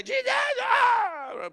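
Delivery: a long, very high drawn-out mock cry to Jesus; hammed-up shouting prayer. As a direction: wail it like a man overcome in prayer. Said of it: "he's shouting in the room".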